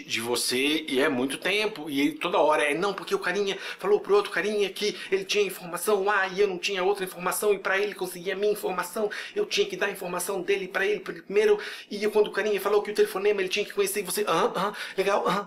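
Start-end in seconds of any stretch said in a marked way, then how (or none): 2.7-14.2 high, rapid run-on retelling; breathless-paced parody of a confusing explanation; mock rambling explanation. Imita falatório confuso do filme. 14.3-15.4 mock nodding along. Imita ouvinte fingindo acompanhar.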